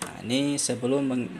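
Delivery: usual speaking voice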